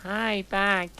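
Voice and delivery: bright high squeak of a reply; mock chirpy. A narrator's reading. Narrator replies to Vampire in a high chirp. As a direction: fire back a high chirpy greeting. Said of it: "I said in a dubby-queased way".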